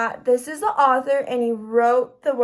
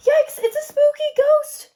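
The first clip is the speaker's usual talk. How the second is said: high, loud, hammed-up yikes; mock scream; 13 semitones higher, 5 dB louder than usual. Pete screams at the ghost, a hammed-up mock scream. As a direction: fake a scared shriek for the kids.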